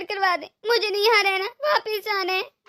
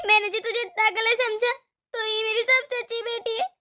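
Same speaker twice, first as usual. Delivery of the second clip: crying apology. Acted. Mother-in-law weeps asking forgiveness.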